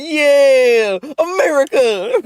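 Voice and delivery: a half-laughing mock cheer of America; mock joyful cry. Streamer imitating the happy anime girl, mock cheer. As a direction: gush it like a delighted fan. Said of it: "She's like".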